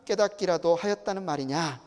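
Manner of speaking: forceful, declaimed challenge; loud stressed openings, pointed rhetorical question; Eliphaz rebuking Job. Acted. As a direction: read it as an indignant accusation. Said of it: "엘리바스가 욥에게 이런 말을 해요".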